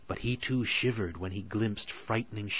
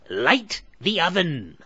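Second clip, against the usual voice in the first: high, slow, loud command; witch's order; 9 semitones higher, 8 dB louder, slower than usual. A narrator's reading. Witch orders Gretel, slow and loud. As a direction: bark it at the girl. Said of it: "she told Gretel".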